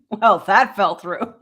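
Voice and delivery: laughing. Retold or imitated. Repeating line, laughing.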